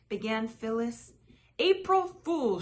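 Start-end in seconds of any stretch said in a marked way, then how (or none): 1.6-2.6 higher, louder gleeful shout. A narrator's reading. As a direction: crow it as the prank lands. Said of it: "shouted Phil Junior".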